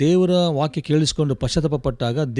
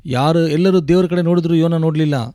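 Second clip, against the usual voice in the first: forceful, raised proclamation; impassioned preaching; 2 semitones higher, 4 dB louder than usual. Real, not acted. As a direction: echo the preacher's cry with full force. Interpreter echoes the preacher's shout. (ಆವೇಶದಿಂದ ಗಟ್ಟಿಯಾಗಿ ಬೋಧಿಸುವ ಧ್ವನಿ)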